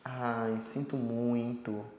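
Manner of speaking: soft, slow ai, sinto muito; a gentle, slow sympathetic ai, sinto muito. Shown as a demonstration. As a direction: say it with pity for the person. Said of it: "quando você tá com dó".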